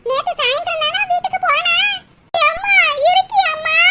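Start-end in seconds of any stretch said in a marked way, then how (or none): 2.5-3.8 calling out. Acted. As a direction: call into the house for your mother. Daughter calls from outside for mother.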